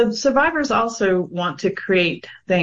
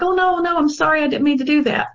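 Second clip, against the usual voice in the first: imitating husband apologizing; 7 semitones higher than usual. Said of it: "He's like".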